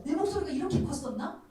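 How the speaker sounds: high, excited wondering voice; astonished at herself. Retold or imitated. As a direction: act out a woman amazed by her own boldness. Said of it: "본인도 놀랐을 거야". (스스로 놀란 여인처럼 높고 들뜨게)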